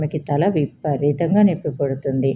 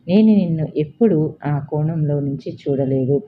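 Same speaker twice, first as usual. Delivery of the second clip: calmer apologetic. Acted. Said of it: "కొంచెం cool అవుతూ".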